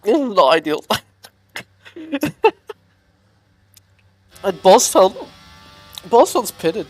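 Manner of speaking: talking through hiccups. Real, not acted. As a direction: hiccups breaking the words. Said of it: "these hiccups are bad".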